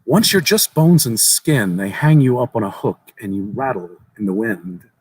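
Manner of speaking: grave and knowing small voice, slowed; sage, sober boy. Acted. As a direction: explain it like a wise old child. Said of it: "he said sagely, soberly".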